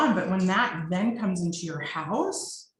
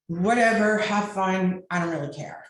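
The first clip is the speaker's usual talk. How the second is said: sulky adolescent; 2 semitones higher, 4 dB louder than usual. Retold or imitated. Mother imitating her regressed self, sulky teen dismissal. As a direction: toss it off like a hurt teenager. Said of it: "I became like an adolescent".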